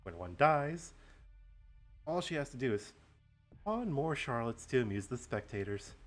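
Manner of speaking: gloating villain monologue; slow theatrical villain menace. Acted. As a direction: lay out the grand plan, gloating. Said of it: "do a nice villain monologue".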